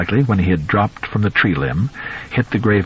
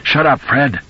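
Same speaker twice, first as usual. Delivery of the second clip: hoarse shout; 6 semitones higher, slower than usual. Acted. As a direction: yell at the dog across the yard. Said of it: "a hoarse voice cried".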